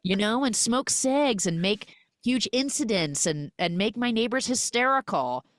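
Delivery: high, mocking sarcasm; sarcastically brushing off his apology; wry joking to her husband; sarcastic retort. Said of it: "And she's like".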